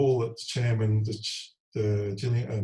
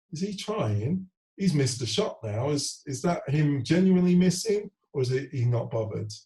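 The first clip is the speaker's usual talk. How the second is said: voicing a suspicious young fan, pitch jumping higher; doubting young fan; 5 semitones higher than usual. Young fans in the stand wondering if he's trying, suspicious higher voice. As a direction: mimic a kid in the stand questioning his effort.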